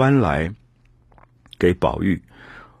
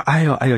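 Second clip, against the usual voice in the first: higher-pitched mock yelp of pain; retold cry of pain; 6 semitones higher, faster than usual. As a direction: imitate someone yelping in pain, not in earnest. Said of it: "这样叫".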